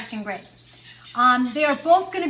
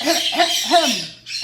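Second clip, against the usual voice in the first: imitated throat clear; 5 dB louder than usual. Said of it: "one of our African Greys goes".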